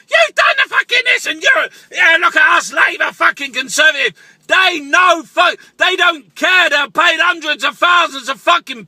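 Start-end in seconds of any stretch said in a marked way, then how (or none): 0.1-4.1 mock shouting politician, high on the first words; mild mock yell of a politician. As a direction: parody the bickering in parliament. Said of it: "shouting and screaming about".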